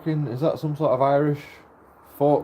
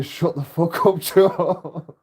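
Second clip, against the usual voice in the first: mates telling off; 5 semitones higher, much slower than usual. Retold or imitated. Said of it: "my mates were saying".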